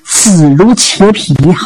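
ordinary delivery, nothing marked

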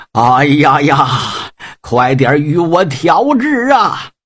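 put-on slow, pained old general's plea; wounded general's groan. Wounded general cries for treatment.

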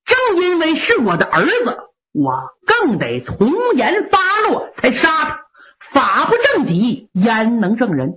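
a stern marshal, lightly voiced, firm; stern displeasure. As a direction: lay down military law to his mother, unbending. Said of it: "六郎挺不高兴".

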